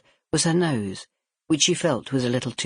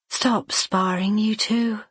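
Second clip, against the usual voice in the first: elder sister scolding; 8 semitones higher, slower than usual. Acted.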